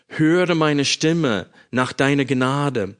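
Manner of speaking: slow, even reading of "Höre meine Stimme nach deiner Gnade"; scripture reading. Acted. Preacher reading the verse to his congregation, calm and solemn. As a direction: read "Höre" as a steady plea, not pushed. Reads Psalm aloud before sermon.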